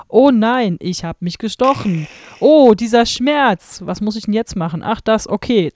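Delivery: hammy stage actor, stiff and overdone; half theatrical wooden. Retold or imitated. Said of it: "also wirklich so halb theatralisch hölzern".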